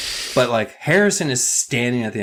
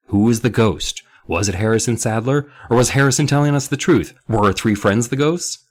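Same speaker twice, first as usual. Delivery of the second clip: raised, mounting storybook questions; dramatic narration; 4 semitones higher, 5 dB louder than usual. A narrator's reading. Narrator wondering who the ghost is, dramatic narration. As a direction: build each question in pitch and force.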